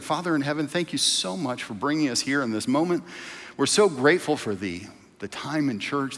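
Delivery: prayer. Acted. Pastor praying quietly over the congregation before the sermon. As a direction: pray humbly before the church.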